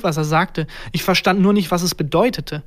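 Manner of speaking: usual speaking voice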